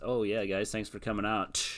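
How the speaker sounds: mock sarcastic tone. Act out Orton's attitude as he slapped the revival in the chest, imitating sarcasm. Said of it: "it was like like a sarcastic like".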